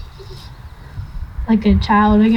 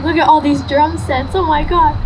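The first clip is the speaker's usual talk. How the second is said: amazed; 5 semitones higher than usual. Retold or imitated. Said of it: "he was so amazed".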